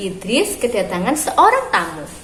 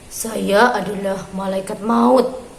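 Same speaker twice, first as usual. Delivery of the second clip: angel of death; 2 semitones lower, slower than usual. Acted. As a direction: announce it slowly and gravely. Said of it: "jawab tamunya". (malaikat maut berbicara pelan dan khidmat)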